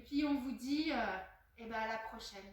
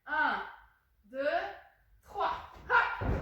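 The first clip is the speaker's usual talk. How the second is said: loud countdown; 2 semitones higher, 8 dB louder, much slower than usual. Real, not acted. Counting kids into jump.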